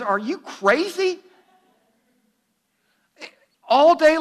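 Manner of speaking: high, loud, disbelieving outburst from a fed-up mother; mom's furious rant at her teenager; exasperated angry mom. Retold or imitated. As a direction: let the mom explode, stretching out all day long. Exasperated mom after day-long battle.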